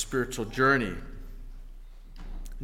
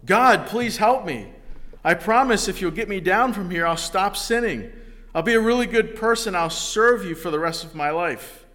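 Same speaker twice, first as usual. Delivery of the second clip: desperate pleading; 5 semitones higher, 4 dB louder than usual. Acted. Jack bargains with God, hanging.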